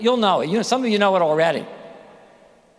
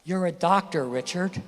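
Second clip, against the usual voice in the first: gentle reassurance; 3 semitones lower than usual. Retold or imitated. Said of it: "Here's what I wish he had said".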